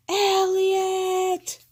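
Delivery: loud, high startled call of a name; shocked shout. A narrator's reading. Father finding a penguin in his bath, loud shocked shout.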